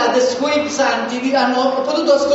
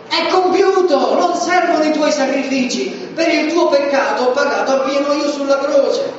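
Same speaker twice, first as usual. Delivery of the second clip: cry of Jesus; 4 semitones higher than usual. Acted. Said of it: "Ascoltiamo il grido di Gesù".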